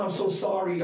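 Oprah's full-voiced mock apology; imitating Oprah. Oprah to the fan holding her hand, voiced apology.

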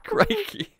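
high-pitched go at a Scottish accent; attempted Scottish accent. Shown as a demonstration. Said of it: "no, say crikey".

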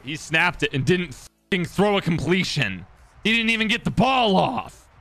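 loud, rising disbelief; incredulous outburst. Real, not acted. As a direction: build to a high, loud cry of amazement.

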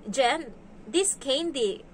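slow, lightly voiced little kid; a hint of a kid addressing the nanny; imitated child. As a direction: mimic a child drawing out each word. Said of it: "Kasi sabi niya".

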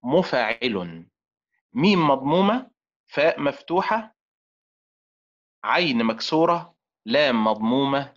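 مفاعل drawn out slowly, syllable by syllable; slow spelled-out word. Shown as a demonstration. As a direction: stretch مفاعل out so each letter is heard. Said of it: "كيف تكتب؟".

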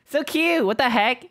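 high, loud delighted squeal; excited squeal. Real, not acted. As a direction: gush over something adorable. Reacting to a cute clip.

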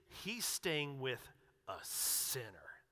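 preacher mimicking the crowd's scorn; disgusted. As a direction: spit out sinner in slow contempt. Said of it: "a disgust to this".

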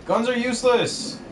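very high, slow outburst; exasperated shout. Real, not acted. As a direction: fire back in exasperation. Arguing about game weapons.

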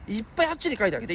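fast, pushing the word いっぱい; hurried urging. Real, not acted. Streamer urging chat to post over there, rushed. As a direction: rattle it off to chat.

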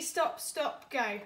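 steady counting for the class; counting aloud. Shown as a demonstration. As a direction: count each one along with pupils. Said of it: "Let's count them up".

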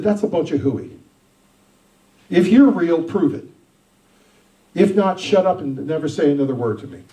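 mild retold outburst at God; calling God out. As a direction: dare God to show himself. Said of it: "I called God out".

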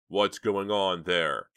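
loud, slow urgent question; urgent demand. Acted. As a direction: demand an answer. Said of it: "countered Chuck".

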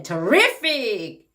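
terrific with a punched, lifted RIF; stress on second syllable. Shown as a demonstration. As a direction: hit the middle of terrific, light first syllable. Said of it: "강세를 앞에 뒤에 주에 따라".

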